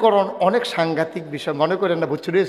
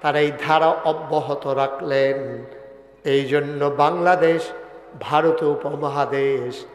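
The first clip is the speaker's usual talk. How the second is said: sing-song sermon, each clause drawn to a held note; melodic preaching; slower than usual. Real, not acted. Preacher leading the crowd to praise God, measured melodic chant. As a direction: chant it steadily toward a long final call.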